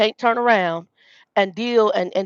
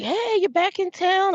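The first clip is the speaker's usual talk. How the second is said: high, drawn-out jovial hello; jovial greeting; 11 semitones higher, slower than usual. Retold or imitated. Old regular joking with her at the table, jovial. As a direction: imitate a joking, friendly greeting. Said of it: "jovial with me and joking".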